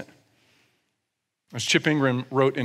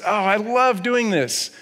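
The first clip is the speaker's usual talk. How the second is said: delighted giver; 5 semitones higher, slower than usual. Acted. Cheerful giver voiced.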